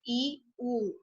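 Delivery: I, U said softly with little mouth effort; soft weak-vowel demo. Shown as a demonstration. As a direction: let I and U come out soft and weak. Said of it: "Mi fuerza muscular no es igual".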